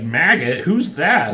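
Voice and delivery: mock bafflement, jumping up in pitch; baffled retold question; puzzled. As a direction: ask it like you're thrown by the name. Jury members baffled by a name.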